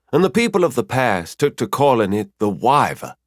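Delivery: a hint of a storytelling mentor; mentor figure, telling lore. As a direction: tell old lore with emphasis. Figure of Mafira tells old lore.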